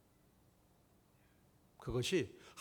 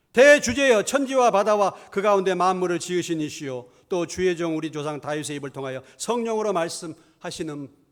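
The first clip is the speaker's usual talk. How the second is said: raised-voice prayer; 2 semitones higher, 9 dB louder than usual. Acted. Preacher reads the believers' prayer to the sovereign Lord, voice raised. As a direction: cry out to God, then settle gradually. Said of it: "소리를 높여서 기도했다".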